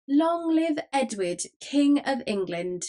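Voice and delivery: high, drawn-out acclamation; crowd cheer. A narrator's reading. Motley crew answers the ruffler, cheering in chorus. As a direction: slowly chant it out like a crew responding.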